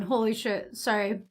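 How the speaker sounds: gasping at the spicy heat; hushed, mouth on fire from chili; mouth burning from spicy food. Real, not acted. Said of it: "and now my mouth is burning".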